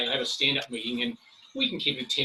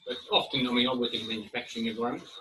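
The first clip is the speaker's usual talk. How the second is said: slightly breathless, talking fast; out of breath; faster than usual. Real, not acted. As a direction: speak a little short of breath. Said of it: "Excuse me, I'm a bit breathless".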